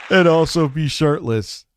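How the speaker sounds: mocking disbelief. Real, not acted. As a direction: ridicule him, laughing at the idea. Mocking the other streamer.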